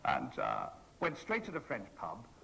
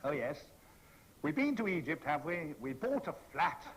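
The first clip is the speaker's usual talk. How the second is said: clunking irony. Retold or imitated. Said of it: "with absolutely clunking irony".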